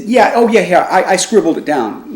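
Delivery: lightly voiced dopey roommate rambling; stoner roommate. Roommate reassuring about the scribbled number: mock stoner voice. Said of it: "my roommate was a real stoner".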